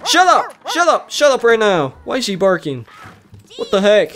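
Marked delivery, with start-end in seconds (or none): 0.1-2.0 high-pitched mock scolding; exasperated, high "shut up"; playful scolding. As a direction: snap at a noisy dog, high-pitched. Scolding barking dog in game.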